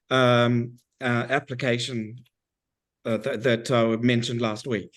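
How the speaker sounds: hoarse from a cold; croaky, losing voice; frog voice. Real, not acted. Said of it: "I sound a bit like a frog".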